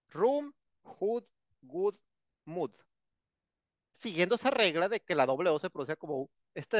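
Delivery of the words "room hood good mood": room, hood, good, mood with oo said like u; model pronunciation. Shown as a demonstration. Teacher modelling the oo words for the class. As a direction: say each word slowly and clearly for the class.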